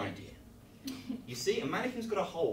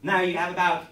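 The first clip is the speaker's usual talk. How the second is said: higher, louder, laughing through fake calm; trying to sound calm while panicking; mock calm reassurance; 3 semitones higher, 11 dB louder than usual. Real, not acted. Host to kids, laughing while pretending all is fine. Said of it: "not to panic, kids".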